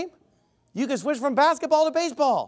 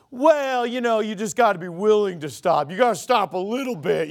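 mock Southern preacher; Southern accent. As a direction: parody a wheedling Southern false-gospel preacher. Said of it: "do a Southern accent when I impersonate".

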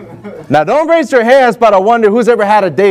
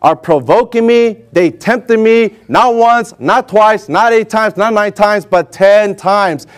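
slow Lord's voice; slower than usual. Retold or imitated. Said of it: "the Lord is saying".

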